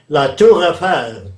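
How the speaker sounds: slow French Tour Eiffel, the way a Frenchman says it; French pronunciation. Retold or imitated. Explaining language to an interviewer, a slow French accent. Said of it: "A Frenchman might say".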